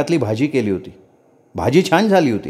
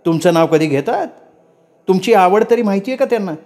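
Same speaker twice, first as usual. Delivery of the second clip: much higher pitched, ranting; shrill angry tirade; 7 semitones higher than usual. A narrator's reading. Wife screaming at husband about his mother, high and furious. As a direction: hurl every grievance at him, pitch climbing. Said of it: "आक्रस्ताळीपणानं आरडाओरडा करायला लागल्याबरोबर".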